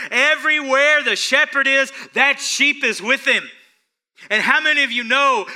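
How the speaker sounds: loud, high, fervent sermon delivery; full-force preaching. Acted. Preacher telling congregation how the shepherd carries the sheep, loud fervent preaching. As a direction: preach it with rising passion.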